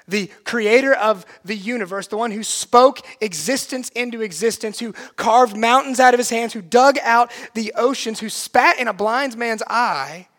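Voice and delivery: building, emphatic preacher's litany; impassioned preaching. Acted. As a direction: pile up each phrase with rising force. Preaches at full force.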